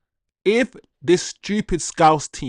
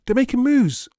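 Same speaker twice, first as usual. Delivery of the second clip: emphatic repeat; 9 semitones higher than usual. Real, not acted. Repeats line, second time emphatic.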